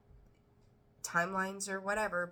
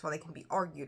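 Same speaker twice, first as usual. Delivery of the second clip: ordinary talk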